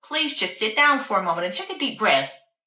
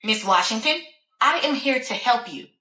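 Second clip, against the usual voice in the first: pleading doctor; 3 semitones higher than usual. Acted. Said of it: "She kept pleading with me".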